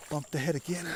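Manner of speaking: whispering. Real, not acted. Bumped head, whispering.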